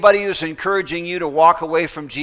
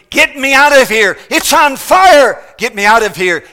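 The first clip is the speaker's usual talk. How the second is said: much higher and louder terrified scream; a desperate shout to get out of the fire; screaming in terror; 8 semitones higher, 10 dB louder than usual. Retold or imitated. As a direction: scream it like a dying man in flames. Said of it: "He screamed".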